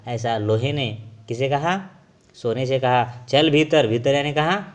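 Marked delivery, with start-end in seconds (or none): 3.3-3.9 loud angry command. Acted. Iron ordering gold into the safe, loud and angry. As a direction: order him inside sharply. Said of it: "गुस्से से".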